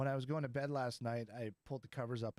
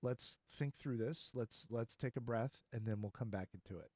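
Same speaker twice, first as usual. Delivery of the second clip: calm suggestion. Retold or imitated. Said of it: "we say".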